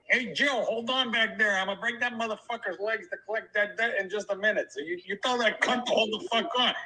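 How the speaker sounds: hushed mobster aside, a lightly voiced Curly; Curly impression. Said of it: "that was my Curly impression".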